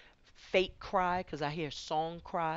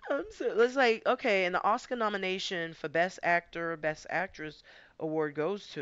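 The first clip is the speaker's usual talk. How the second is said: high and loud through laughter, mock award show; laughing mockery; 4 semitones higher, 6 dB louder than usual. Real, not acted. Reader mocking a fake crier with an award, laughing. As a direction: crack up handing out a fake Oscar.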